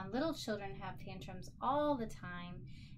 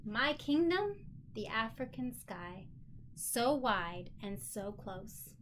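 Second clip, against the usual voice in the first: put-on slow, expressive read-aloud to a child; storybook reading; slower than usual. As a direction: let each line land slowly, as the proud princess. Reads picture book aloud.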